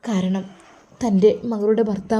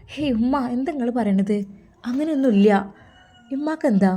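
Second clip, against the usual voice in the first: higher, louder daughterly protest; protesting denial; 3 semitones higher, 4 dB louder than usual. Acted. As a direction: brush off mother's suspicion with mild indignation. Daughter denies mother's suspicion. (ഉമ്മയോട് പ്രതിഷേധിച്ച് നിഷേധിക്കുന്ന മകൾ)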